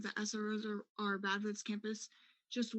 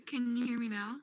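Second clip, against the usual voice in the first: louder to be heard; speaking up; 5 dB louder than usual. Real, not acted. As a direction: push the voice out. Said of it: "Slightly better".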